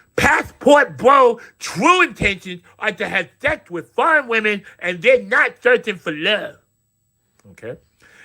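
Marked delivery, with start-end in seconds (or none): 0.2-6.6 high, queenly read-aloud voice. Reading a quoted claim aloud: reading it like a queen. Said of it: "I gotta read it like a queen".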